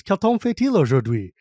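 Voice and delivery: line spoken in classroom French; school French. Shown as a demonstration. Remembered school French shown to a friend. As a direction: Quel temps fait-il aujourd'hui? said carefully in French. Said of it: "all I remember is".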